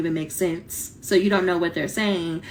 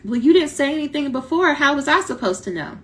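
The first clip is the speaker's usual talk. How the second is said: confused people; 7 semitones higher, 4 dB louder than usual. Retold or imitated.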